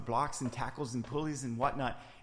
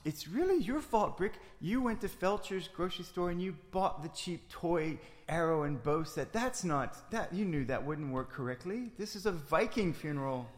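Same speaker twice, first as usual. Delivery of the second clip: indignant; 4 semitones higher than usual. Acted. Heated argument about arrows.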